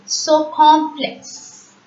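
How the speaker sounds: "circumflex" slowly, middle syllable a nasal "on"; French pronunciation. Shown as a demonstration. Teacher explains the nasal O N, slow French "circumflex". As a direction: sound out "circumflex" as seer-kon-flex. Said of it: "so we pronounce it as".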